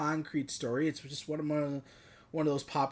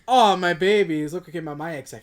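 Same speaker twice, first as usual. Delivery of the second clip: quoted film character; 2 semitones higher, 9 dB louder than usual. Retold or imitated. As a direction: play up the movie line. Replays the same film quote.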